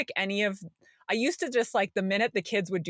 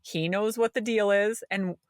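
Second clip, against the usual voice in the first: firm self-correction. Retold or imitated. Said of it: "And I'm like".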